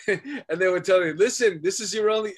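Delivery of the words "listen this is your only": stern parent. Retold or imitated. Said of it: "I don't wanna do the accent".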